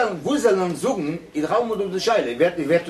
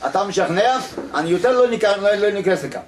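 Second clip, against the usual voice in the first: louder retold protest in Hebrew; retold indignant refusal; 4 semitones higher, 3 dB louder, much faster than usual. Listener tells the lecturer he won't come back, retold indignant protest. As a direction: act out someone loudly refusing to return.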